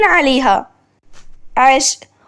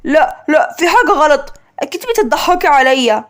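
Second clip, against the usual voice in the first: shocked; 2 semitones lower than usual. Acted. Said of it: "مهند بصدمة".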